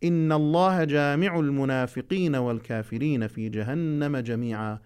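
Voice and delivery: measured, slow recitation; Quran recitation. Acted. Teacher reciting a verse to students, slow measured recitation. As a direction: recite each word deliberately for the class.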